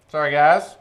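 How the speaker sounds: distant muffled mic; sounds far away. Real, not acted. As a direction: far from the microphone. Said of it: "He sounds far away".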